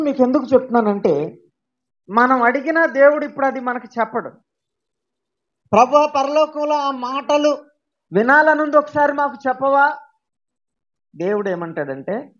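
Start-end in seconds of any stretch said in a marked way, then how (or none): 5.7-10.0 mock pleading, a bit higher and louder; pleading prayer. Believer begging God to reveal heaven's words, mock pleading. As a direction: coax God like an eager child.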